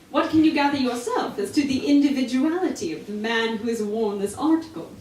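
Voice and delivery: lightly hammed Sherlock challenging Watson; Holmes accent. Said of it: "All accents".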